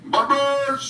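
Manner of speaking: high, ringing call of "Barbers!". Acted. Vlogger calling out to Barbers, high rally shout. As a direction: shout his name like a rally cry.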